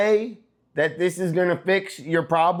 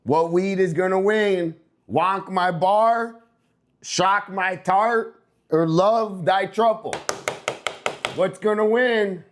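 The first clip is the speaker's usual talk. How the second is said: excited; 5 semitones higher than usual. Real, not acted. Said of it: "I get excited".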